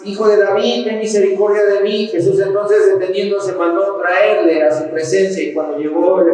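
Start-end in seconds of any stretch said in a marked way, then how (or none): 0.0-2.1 higher-pitched pleading call, not shouted; mild, raised-pitch imploring cry; crying out in plea. Retold or imitated. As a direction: read the blind man's plea with raised pitch. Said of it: "él clamaba mucho más".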